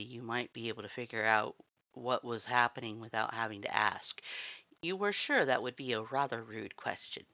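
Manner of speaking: usual speaking voice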